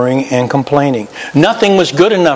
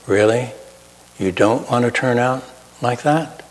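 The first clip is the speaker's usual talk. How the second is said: hushed Spirit voice; 7 dB quieter than usual. Retold or imitated. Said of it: "a whisper of the Spirit saying".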